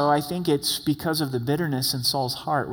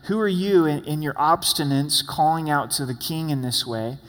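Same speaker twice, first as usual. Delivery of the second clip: lightly acted outrage at being called out; mild anger. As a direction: demand an answer with a touch of anger. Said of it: "you can hear the anger in Abner's voice".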